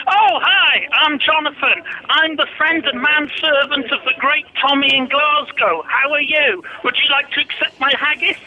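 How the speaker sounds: Darth Vader. Acted. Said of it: "that was his Darth Vader impression".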